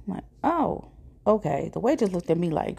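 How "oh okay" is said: "Oh" jumps very high, then "okay" drops flat; a startled, caught-off-guard squeak on "Oh"; surprised oh okay. Retold or imitated. Date says he came to bask.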